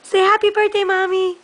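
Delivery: excited coaxing. Real, not acted. Urging baby excitedly.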